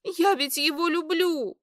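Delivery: high, tearful wail; lightly voiced drunken sobbing. A narrator's reading. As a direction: cry out through tears. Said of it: "разрыдалась".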